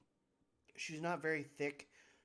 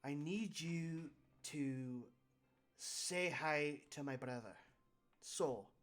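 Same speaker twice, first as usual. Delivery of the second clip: lightly voiced brash boss; boss's letter voice. Game master reads the boss's letter to the players, lightly voiced brash boss. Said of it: "every time I do that voice".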